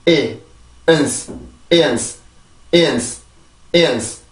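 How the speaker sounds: "이은스" short, weak schwa, hissed final s; backward build-up drill. Shown as a demonstration. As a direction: join "이" and "은스" into a compact falling "이은스". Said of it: "뒤에부터 완성을 시켜볼까요". (뒤에서부터 이어 붙이는 "이은스")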